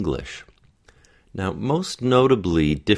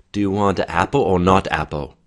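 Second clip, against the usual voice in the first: louder "apple", then "not apple" falling at the end; either-or question; 5 dB louder than usual. Shown as a demonstration. Coach modelling an A-not-A question, falling on "not apple". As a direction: set "apple" against "not apple", without a final rise. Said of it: "it's sort of an either or question".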